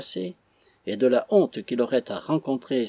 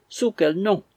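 higher, louder, stress on Sous, rising at the end; wife repeating her cry, insisting; crying out again; 7 semitones higher, 4 dB louder than usual. A narrator's reading. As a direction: press Sous quel nom with Sous hit and a rising tune. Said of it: "cria Missus Fitzsimons".

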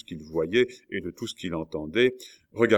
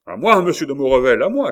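very high, loud frantic call; cry for help; 7 semitones higher, 11 dB louder, faster than usual. A narrator's reading. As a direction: shout desperately for backup. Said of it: "cria la hurrière". (appel au secours, très aigu)

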